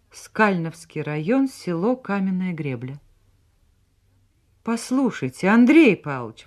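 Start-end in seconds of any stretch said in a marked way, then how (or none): 4.6-6.5 higher, agitated call; excited exclamation. A narrator's reading. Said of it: "воскликнула она взволнованно". (взволнованно)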